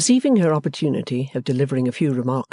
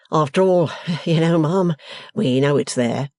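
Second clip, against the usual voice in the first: agreeable smile; 3 semitones higher, 3 dB louder than usual. Acted. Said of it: "said with an agreeable smile".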